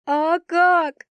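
high, distraught outcry; acted yell. A narrator's reading. Crying girl answering her comforting friend, yelling. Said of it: "заорала я".

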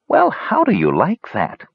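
amused elf. Acted. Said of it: "said the elf, cheerful tear".

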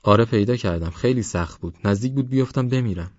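lightly voiced youngster telling of danger; eager account with a small rise at the end; adventurous young Parvaz.

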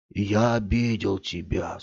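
slow, whimpering apology; whiny tearful voice. Acted. Man apologizing to Scott, slow and tearful. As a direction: mildly whine it out. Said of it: "сказал он плаксивым голосом".

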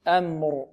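أمر with a light, thin opening vowel; careful, unthickened أمر; light hamza. Shown as a demonstration. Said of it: "نفخم الهمزة".

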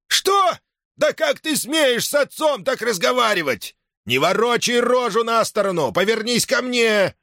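put-on high, indignant old man's shout; scandalized that his son talks back; furious father shouting at his son; outraged old man. Father outraged at son's retort.

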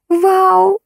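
very high, drawn-out squeal of delight; excited. A narrator's reading. Girl on the phone gets permission, squealing happily. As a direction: let out a high, thrilled wow. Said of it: "донеслось из трубки".

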